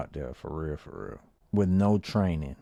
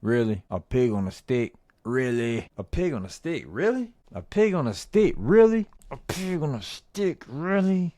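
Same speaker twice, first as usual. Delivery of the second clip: hammed-up disbelief; 4 semitones higher than usual. Shown as a demonstration. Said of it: "Put some of that acting shit in there".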